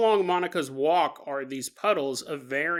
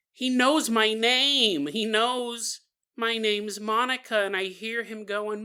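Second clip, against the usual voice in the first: put-on higher, slower child's voice; lightly voiced anxious little girl; a hint of childish urgency; pleading child; 5 semitones higher, slower than usual. Teller voices the child reporting.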